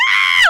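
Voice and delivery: very high, very loud joyful scream; retold scream. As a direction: shriek as the champagne explodes. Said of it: "we were like screaming".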